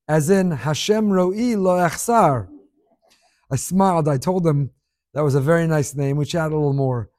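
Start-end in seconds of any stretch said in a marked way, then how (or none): 0.1-2.5 put-on slow, light Israeli accent. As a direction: recite it like an Israeli. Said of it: "with a thick Israeli accent".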